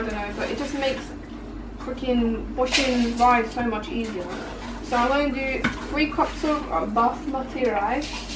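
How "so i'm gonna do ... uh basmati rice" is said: put-on Indian accent. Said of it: "Why did I just do that in an Indian accent?".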